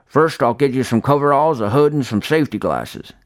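lightly voiced old man. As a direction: plainspoken old handyman. Old man lists gear.

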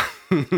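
brief embarrassed chuckle; verlegenes Lachen. Real, not acted. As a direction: laugh it off awkwardly. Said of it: "ich lache aus Verlegenheit". (kurzes verlegenes Lachen)

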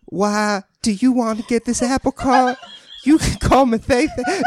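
quivering Southern belle, badly done; botched Southern belle. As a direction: attempt a Southern accent that slips into an old man's quiver. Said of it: "Now I sound like the old man from Family Guy".

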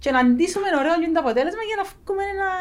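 everyday Cypriot Greek speech; cypriot greek accent. Real, not acted. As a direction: speak with a natural Cypriot accent. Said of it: "Cypriot speech throughout". (κυπριακή προφορά)

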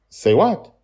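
put-on high, loud child asking back; a small boy confused by the question; puzzled little boy. Charlie's child voice.

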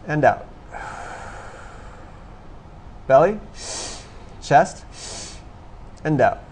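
short rising cues in, falling on the out; breathing exercise cues. Shown as a demonstration. Instructor leading a group through belly breaths, rhythmic cueing. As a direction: pace the breaths with spaced, lifted prompts.

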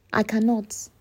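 whispered I cannot. Real, not acted. Admitting to her critics, whispered.

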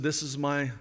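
voice from heaven. Retold or imitated. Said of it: "The voice said".

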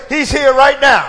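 loud call-out. Shown as a demonstration. Preacher leading the church in a loud shout. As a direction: lift the room with it. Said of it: "let's go a little further and say".

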